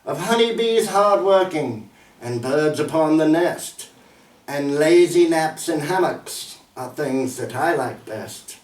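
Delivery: measured, formal verse reading; poem recital. Acted. Poet reciting "Repose" to an audience, measured poem recital. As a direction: recite it line by line, with deliberate phrasing.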